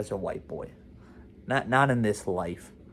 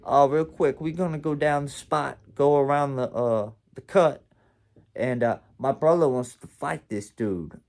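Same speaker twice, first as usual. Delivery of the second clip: lightly imitated street dude; casual retold street talk, a bit louder; Scratch; 4 semitones higher, 6 dB louder than usual. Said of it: "And Scratch, my dude, said".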